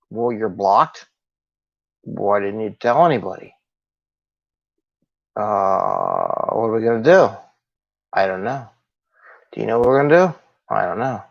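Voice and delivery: a listless leader without any pep; unenthusiastic. Shown as a demonstration. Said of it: "that's more happier than".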